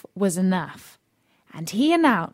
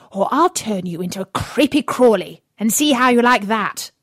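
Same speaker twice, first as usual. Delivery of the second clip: louder, menacing stepmother voice; a stern wicked witch threatening; 4 dB louder than usual. Acted.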